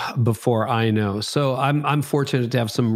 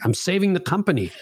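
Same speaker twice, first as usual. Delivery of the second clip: laughing self-mockery; 8 semitones higher, faster than usual. Self-mocking answer to wife.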